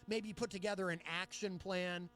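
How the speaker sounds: mock diplomatic. Imagined reviewer going easy on the administration, mock diplomatic. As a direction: soften the criticism with polite hesitation. Mock mild critic, contrasted with real words.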